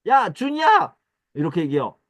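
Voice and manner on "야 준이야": loud, high call to a friend. Acted. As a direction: shout the name playfully from behind. Calling a friend, slapping head. (높고 크게 친구 이름 부르기)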